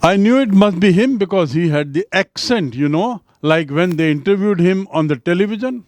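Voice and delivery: slow, careful reading of the English lines; measured classroom reading; slow text reading. Acted. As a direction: read each word out for learners. Reads English text slowly.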